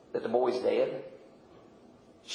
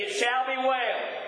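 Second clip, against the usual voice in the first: slow, patient repeat; 5 semitones higher, slower than usual. Retold or imitated. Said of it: "How many times do you have to say".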